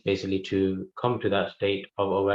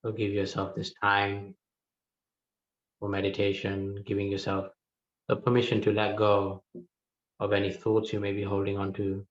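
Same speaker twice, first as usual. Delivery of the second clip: calm, spaced-out meditation instructions; unhurried meditation guide, leaving room to breathe; guided meditation. Real, not acted. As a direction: guide them gently inward, pausing between phrases.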